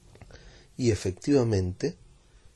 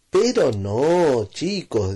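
calm father; 4 semitones higher, 5 dB louder, much slower than usual. Acted. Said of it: "dijo el papá".

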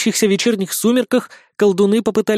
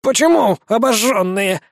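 higher, uneasy question; wincing vampire; 4 semitones higher than usual. A narrator's reading. Vampire worried for his wings, higher and uneasy. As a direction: ask it with a shiver. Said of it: "поёжился упырь".

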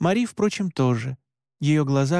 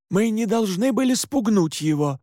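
higher-pitched, mildly irritated retort; 7 semitones higher than usual. A narrator's reading. Father Pascal defending himself to Mora, mildly irritated. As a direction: answer back with a touch of annoyance. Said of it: "раздражённо ответил".

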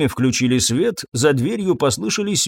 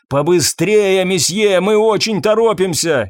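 raised, urgent call; impatient higher-pitched yell; shouting; 6 semitones higher, 4 dB louder than usual. A narrator's reading. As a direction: shout to someone in another room to hurry. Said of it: "ещё раз крикнул Юбер".

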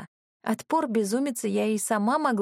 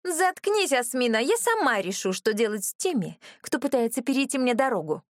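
властно; 4 semitones higher than usual. Acted. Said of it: "властно произнесла брюнетка".

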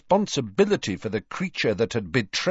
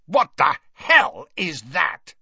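high, forceful bellow; appalled bellow; 8 semitones higher than usual. A narrator's reading. Uncle demanding to know about the house elf, bellowing. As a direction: bellow it in horrified outrage. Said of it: "Uncle Vernon bellowed".

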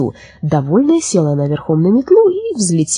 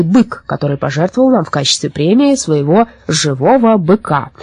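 ceremonial speech. A narrator's reading. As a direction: open a festival as its official host. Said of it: "Сейчас старшина скажет речь".

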